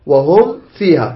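slow "وهم", lips closed cleanly before "فيها"; clear meem. Shown as a demonstration. Teacher shows students how to read it, clear meem. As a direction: pronounce the meem of "وهم" distinctly, without humming. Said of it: "تقرأ كذا".

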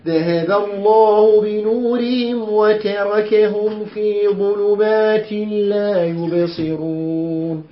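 slow, chanted tajweed reading; measured Quran recitation with held vowels; Quranic recitation. Shown as a demonstration. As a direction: recite the verse slowly and evenly. Teacher recites the verse.

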